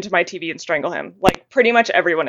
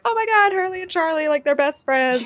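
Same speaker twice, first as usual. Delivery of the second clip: mocking gushing fans; 8 semitones higher than usual. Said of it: "people are like".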